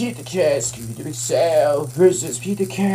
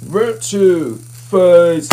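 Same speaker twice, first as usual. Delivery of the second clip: booming fighting game announcer; 7 dB louder, much slower than usual. Pretend. Fighting game round call.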